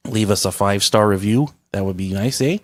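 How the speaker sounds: hammed-up Canadian accent with eh. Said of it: "working on my Canadian accent".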